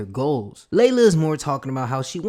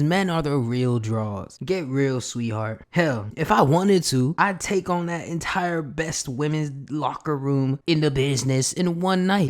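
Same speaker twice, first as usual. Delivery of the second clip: cocky boast. Retold or imitated. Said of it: "And he says".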